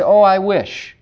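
mildly moaning, wishful complainer; lightly acted wistful grumble; mock complaining. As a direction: imitate someone groaning over what they lack. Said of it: "moan or groan and say".

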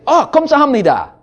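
re-enacted cheery, rapid greeting; big smile. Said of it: "big smile on my face".

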